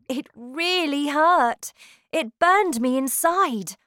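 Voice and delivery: anguished, pushed voice; pained. A narrator's reading. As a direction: cry out the burning pain. Boy in pain.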